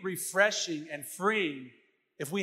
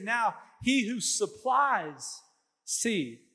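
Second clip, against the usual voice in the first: slow, weighty reading of scripture; slower than usual. Real, not acted. Preacher reads Corinthians aloud to the congregation, slow and solemn. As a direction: read each phrase slowly and deliberately. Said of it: "Let me read it again".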